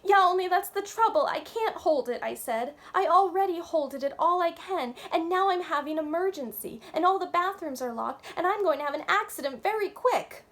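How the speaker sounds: high, loud, wailing plea; tearful, desperate little girl; crying. A narrator's reading. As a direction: wail it out near tears. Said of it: "And I started to cry".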